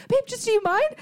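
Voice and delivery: high, pleading little request; retold upset plea. Girlfriend asking boyfriend for a redo, upset. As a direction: plead lightly, a bit upset. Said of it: "I was like, s-, upset".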